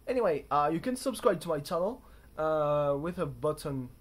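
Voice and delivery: loud mock British accent; bad British accent. Asking viewers to subscribe in a bad British accent. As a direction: keep up the hammy British accent. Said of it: "a terrible impression of a British accent".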